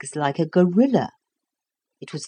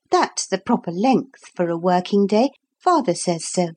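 put-on little girl voice. Lucy's voice.

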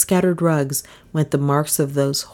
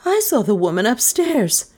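steady; 6 semitones higher than usual. A narrator's reading. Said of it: "speaking steadily enough".

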